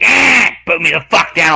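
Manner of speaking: high, loud animal protest; imitated angry tortoise. Tortoise being carried off the road, mock angry protest. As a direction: squawk it as the indignant tortoise.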